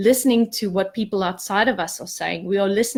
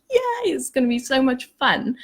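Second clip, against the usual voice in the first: put-on a higher, gleeful cheer like an excited child; giddy excitement; 5 semitones higher than usual. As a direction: squeal it like a kid who can't wait. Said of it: "I was a bit like a giddy child".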